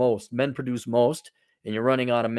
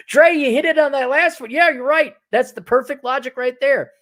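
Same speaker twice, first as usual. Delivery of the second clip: sarcastic praise; 11 semitones higher, 6 dB louder than usual. Real, not acted.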